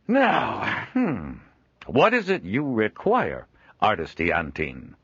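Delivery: a jovial trader chuckling at his own likeness; Joel, amused trader. Acted. Joel asking requirements.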